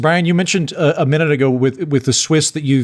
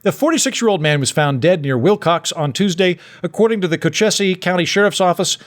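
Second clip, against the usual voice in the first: news read. Real, not acted. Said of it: "I'm gonna go ahead and read this one".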